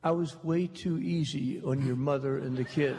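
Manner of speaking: quoting Dad while chuckling; laughing through quote. Real, not acted. Son laughing as he quotes his stubborn father's verdict. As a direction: let the laugh leak into the quote.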